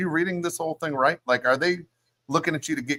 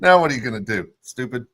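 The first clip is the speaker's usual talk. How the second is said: louder, punchier mocking jab; mean taunt; 3 semitones lower, 3 dB louder than usual. Friend gloating at the hurt guy, louder mean taunt. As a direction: rub it in harder. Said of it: "God, that's so mean".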